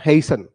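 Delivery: "हेसन" with no t sound; "हेसन", s running straight into n; silent t. Shown as a demonstration. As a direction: pronounce "हेसन" leaving out the t. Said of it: "इसका टी जो है silent हो जाएगा".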